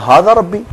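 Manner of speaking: "हाज़ा रब्बी" with the pitch rising high on रब्बी; rhetorical question. Shown as a demonstration. Scholar quoting scripture to explain tone, rhetorical question. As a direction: lift "रब्बी" into a disbelieving question. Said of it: "इस्तिफहाम इनकारी में आ गया".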